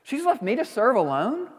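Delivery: sulky complaint about her sister; self-righteous. Retold or imitated. Pastor voicing Martha's self-righteous complaint, mock whiny. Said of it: "some self-righteousness towards her sister".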